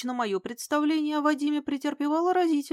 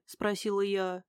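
ordinary delivery, nothing marked

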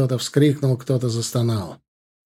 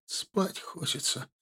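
very soft, slow and fading; drowsy murmur, stretched out and hushed; low-voiced drawl; 3 semitones higher, 11 dB quieter, slower than usual. A narrator's reading. Wounded man wants to sleep, drawling under his breath. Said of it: "протянул он вполголоса".

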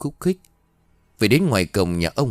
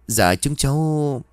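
halting, slow, higher stammer; a flustered girl stammering to a scolding old woman; 6 semitones higher, slower than usual. A narrator's reading. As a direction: caught out, fumble for words. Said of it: "Tôi ấp úng không biết trả lời làm sao".

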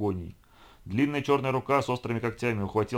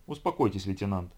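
icy tone. Acted. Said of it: "ледяным тоном повторил".

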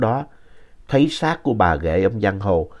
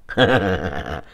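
long laugh; 4 semitones lower than usual. A narrator's reading. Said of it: "ông cười một tràng dài".

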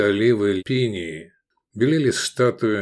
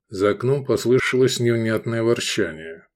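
plain reading voice

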